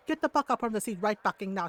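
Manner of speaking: fast accented mom telling-off, imitated; scolding mom. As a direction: rattle off an order like mom. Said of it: "like, the mom tone and everything".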